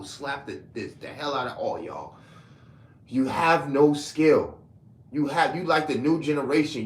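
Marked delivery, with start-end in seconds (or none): 3.1-6.8 scornful scolding. Real, not acted. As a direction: lay each word down with contempt. Scolding critics, rant.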